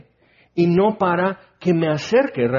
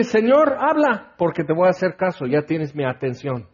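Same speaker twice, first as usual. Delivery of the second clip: fervent prayer. Shown as a demonstration. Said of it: "Es para decirle".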